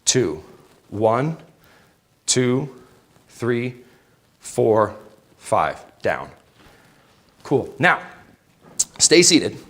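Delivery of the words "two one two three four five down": counting workout reps. Shown as a demonstration. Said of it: "Let's go".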